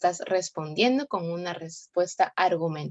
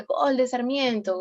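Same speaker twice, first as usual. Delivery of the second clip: slow, higher and louder, like calling a goal; 6 semitones higher, 4 dB louder, slower than usual. Shown as a demonstration. Teacher demos a goal call for the class, in mild announcer style. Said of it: "nadie te está diciendo todo ese relato".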